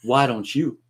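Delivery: put-on Austrian action hero accent; Arnold impression. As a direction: accuse him like Schwarzenegger. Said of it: "this line from Predator".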